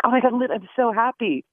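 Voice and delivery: high-pitched imitation of an excited child; gushing young girl. Actress imitates her young co-star running up, gushing and high-pitched. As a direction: imitate a sweet kid bubbling over. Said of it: "she came running up to me and she was like".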